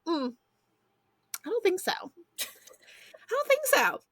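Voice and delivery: high, slow, strained worry; dawning dread. Retold or imitated. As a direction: stretch it out in rising panic. Panicked admission to son.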